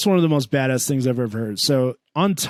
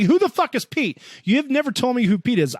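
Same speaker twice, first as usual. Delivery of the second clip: mild disbelief; 10 semitones higher than usual. Retold or imitated. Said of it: "I'm like".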